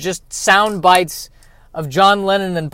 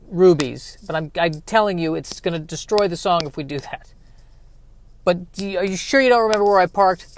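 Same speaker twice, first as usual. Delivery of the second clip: Impression of a famous singer. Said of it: "of a singer going".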